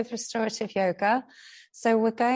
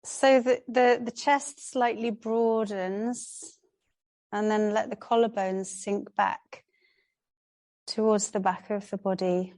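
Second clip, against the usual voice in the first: calm yoga teacher's instruction with long pauses; unhurried, spaced-out yoga guidance; guided relaxation. Real, not acted. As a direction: guide a class gently into rest, pausing between phrases. Leads a relaxation practice.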